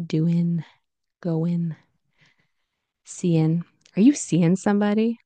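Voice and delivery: "doing, going, seeing" as "doin', goin', seein'"; IN ending. Shown as a demonstration. Teacher listing common casual forms, IN ending. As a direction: end each ING word on N. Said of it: "you'll hear in".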